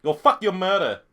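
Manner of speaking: mock Asian-accented insult. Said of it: "Do your best Asian accent".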